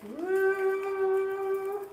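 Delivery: high, loud cheer; excited whoop. Real, not acted. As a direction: let out a happy whoop. Cheering before a trick.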